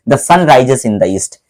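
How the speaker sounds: the corrected sentence read out very slowly; slow dictation. Shown as a demonstration. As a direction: give each word its own beat. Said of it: "अब हमारा वाक्य सही हो गया". (सही वाक्य बहुत धीरे-धीरे)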